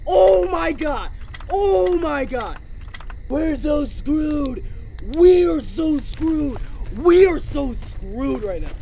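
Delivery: slow wail of doom; drawn-out despair. Real, not acted. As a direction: stretch every word out in dread. Doomed in the game.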